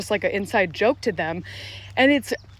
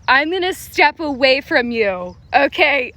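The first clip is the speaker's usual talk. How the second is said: retold firm brush-off; 4 semitones higher, 6 dB louder than usual. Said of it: "I was like".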